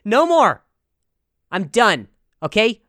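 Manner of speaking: loud, high ranting declaration; mock outraged proclamation. Comic proposing to ban schools, loud mock outrage. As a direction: slam it down like a demagogue.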